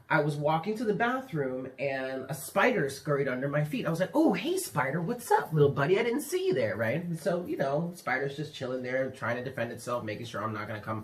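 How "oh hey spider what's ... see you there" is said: high, friendly hello to a critter; higher-pitched chummy sing-out; friendly greeting. Retold or imitated. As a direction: greet it like a little pal. Cheerfully greets a spider in story.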